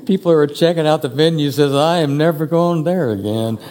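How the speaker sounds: mock a visitor's verdict while laughing; laughing quote. Preacher jokes about a visitor mid-sermon, laughing.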